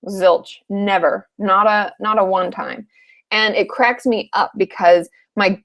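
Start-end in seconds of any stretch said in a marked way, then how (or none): none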